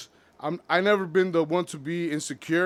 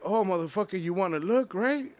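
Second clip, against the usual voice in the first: jealous accusation; 6 semitones higher than usual. Retold or imitated. Girlfriend accuses him over footsteps.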